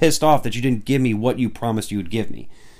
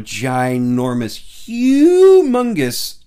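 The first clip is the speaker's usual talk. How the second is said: gushing fan; 6 dB louder, much slower than usual. Real, not acted. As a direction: stretch it out like a starstruck fan. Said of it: "anybody who knows me knows".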